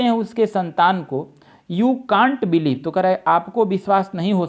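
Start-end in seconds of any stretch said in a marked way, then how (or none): 1.7-2.8 you can't believe said very slowly; slow reading. Shown as a demonstration. Teacher reading the question aloud, very slow. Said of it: "reading out the sentence".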